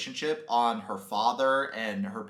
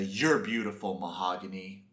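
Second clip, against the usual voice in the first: dreamy whisper; 4 semitones lower than usual. Retold or imitated. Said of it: "Ben's gonna bring her close and say".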